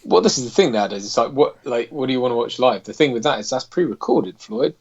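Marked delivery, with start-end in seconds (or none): 3.7-4.8 lightly put-on Southern rooster drawl, a bit higher; Foghorn Leghorn drawl. Teasing a viewer about pre-recorded shows, in a light Southern drawl. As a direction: play the blustery cartoon rooster scolding Floyd. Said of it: "I don't know why I'm talking like this".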